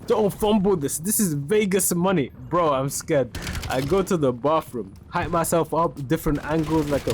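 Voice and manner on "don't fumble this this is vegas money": higher, urgent mock anger; imitated fury. Furious recruiter warns about Vegas money, imitated anger. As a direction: retell his furious warning, pitch raised. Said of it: "He's furious".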